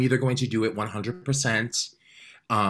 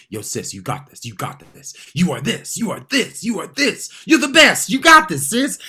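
pep talk that swells into a loud, high cheer; self pep talk; 9 semitones higher, 8 dB louder than usual. Retold or imitated. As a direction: hype yourself up until you're shouting. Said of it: "That's, like, my inner voice".

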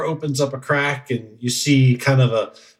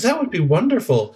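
high, pleased little goblin; delighted small creature, pitched up; high goblin voice, gratefully; 7 semitones higher than usual. Acted. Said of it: "He says".

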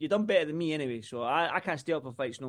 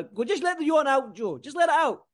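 higher, louder playful goading; teasing; 9 semitones higher, 5 dB louder than usual. Real, not acted. Host teasing co-host Joe over a stifled yawn, playful goading. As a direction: egg him on to yawn, grinning.

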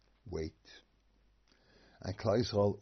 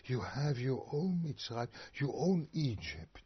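mock lefty platitude; 5 semitones higher than usual. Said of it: "it's not so sincere".

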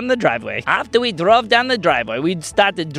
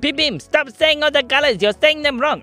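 put-on high, protesting child voices; girls complaining; 8 semitones higher than usual. Girls correcting Pim Pim, high scolding voice.

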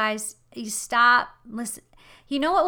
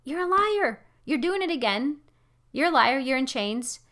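mock jeering; 2 semitones higher than usual. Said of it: "you can laugh at him and go".

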